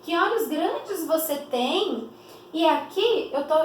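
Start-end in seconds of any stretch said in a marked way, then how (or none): 0.0-2.1 amazed exclamation. Acted. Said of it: "reproduzindo em discurso direto".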